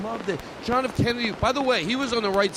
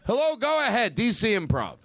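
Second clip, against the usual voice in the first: dumb phone guy; 5 semitones higher than usual. Pretend. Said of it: "get this guy, whoever answers the phone, stupid".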